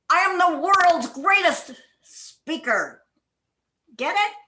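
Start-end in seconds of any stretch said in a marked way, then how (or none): 0.1-3.0 speaker given the weight; stress on speaker. Shown as a demonstration. Coach shows stress on speaker to the club. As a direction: land on speaker. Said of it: "one word at a time as if it is the most important".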